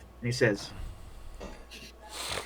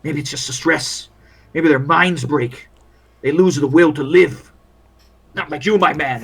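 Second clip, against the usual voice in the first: world-weary field doctor grumbling; lightly voiced war medic venting doubts; weary army doctor; 5 dB louder than usual.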